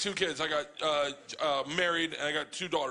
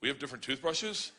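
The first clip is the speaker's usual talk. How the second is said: deadpan, lower-pitched question; dead serious; 4 semitones lower, 4 dB quieter than usual. Retold or imitated. Daughter answering dad about toothbrushes, dead serious. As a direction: ask it in mock earnest, completely serious. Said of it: "looks at me dead serious".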